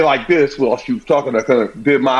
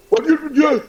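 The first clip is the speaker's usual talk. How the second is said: mock mother demand; 12 semitones higher than usual. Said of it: "she's like".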